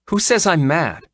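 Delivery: high-pitched defensive retort; indignant. Acted. Vet denies that she is mad, indignant. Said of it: "you're yelling at me".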